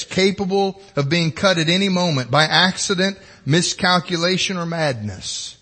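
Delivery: JFK-style Boston accent; Kennedy's Boston accent, lightly done. Shown as a demonstration. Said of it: "my best Boston accent".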